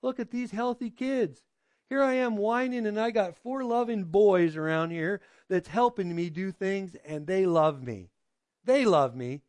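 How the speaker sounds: a touch of tender amazement; understated thankful musing; grateful wonder. Retold or imitated. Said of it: "she's going".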